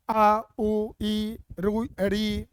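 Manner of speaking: अ, उ, ई, रु, री clipped short; short vowels said briefly. Shown as a demonstration. Teacher sounding out short vowels to the class, quick and short. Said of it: "अब इनका उच्चारण कर रहे हैं".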